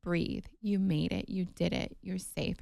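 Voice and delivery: calm her like a nurse close by; soothing nurse. Retold or imitated. Nurse leaning in to calm the laboring wife, soft and soothing. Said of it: "gets her head close to mine".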